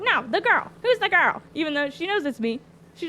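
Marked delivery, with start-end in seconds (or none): 0.0-1.4 higher, louder, pressing hard for an answer; mock demanding. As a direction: push her, who's the girl. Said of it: "she's like".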